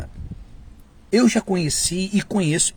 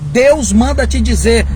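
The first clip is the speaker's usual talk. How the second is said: higher, louder rising "Deus manda te dizer"; mock pompous prophet; 6 semitones higher, 8 dB louder than usual. Preacher mocking an Instagram-style prophetic slogan. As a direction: ham up the arrogant prophet. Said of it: "Virou até postagem do Instagram".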